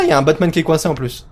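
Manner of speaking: usual speaking voice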